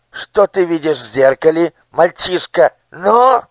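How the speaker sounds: high, loud, wry squeak; sneering minister. A narrator's reading. Nushrok sneers at the lying people. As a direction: curl your lip and squeal.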